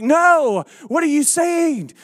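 mock yelling. Masked customer to cashier he can't hear, mock yelling. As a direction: yell as if you can't hear. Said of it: "I'm yelling at people".

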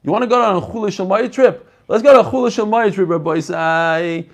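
playful, hammed-up call to the class; mocking over-correct speech. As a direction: poke fun at the pedantic "chuloi" by calling it out. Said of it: "Who talks like that?".

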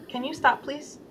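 soft self-talk with a hushed "please?"; gentle request. Shown as a demonstration. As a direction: ask kindly, letting "please?" fade to very soft. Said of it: "that's kinda how I talk to myself".

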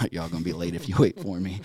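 half-laughing as he retells it; laughing while quoting. Retold or imitated. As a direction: quote it through a laugh. Telling buddies he got shot.

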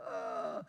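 airy mock swoon; swooning sigh. Women swooning over handsome man.

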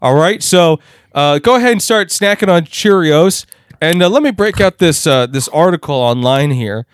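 lightly voiced cheerful handler talking down; a hint of a patronizing caregiver; chirpy handler. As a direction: play the condescending caretaker, upbeat. Mock teacher handler voice.

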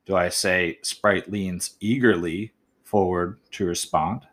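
trying "leans eagerly forward", measured and slow. Shown as a demonstration. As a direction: read it slowly, testing the word order. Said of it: "by putting that word eagerly in different spots".

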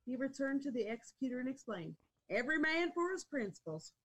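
reading aloud. A narrator's reading. Reader telling how Boone met the hangman, rousing story read. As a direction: read it out, lifting the final quoted words.

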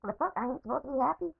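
very high mock disbelief; incredulous. Answering his daughter in high mock disbelief. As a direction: squeak out outraged disbelief. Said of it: "I'm like".

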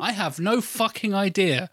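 high, slow, emphatic bafflement; exasperated. Retold or imitated. Host replays answering partner during the film, exasperated. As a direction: draw it out in helpless disbelief.

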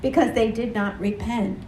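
measured, solemn Bible reading to the congregation; scripture reading. Acted. Preacher reading Matthew to the congregation, solemn. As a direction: read the passage with weight, building on the woes.

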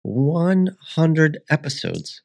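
slow, high, proud announcement; excited. Real, not acted. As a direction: savor the milestone. Celebrating the hundredth episode.

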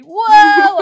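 loud hammed-up wow; mock excited wow. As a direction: shout it like a cheesy trailer. Mocking the trailer.

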